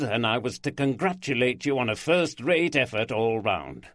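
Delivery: jovial, loud bantering boss; string him along playfully; teasing boss voice. Acted. Walker teases with news.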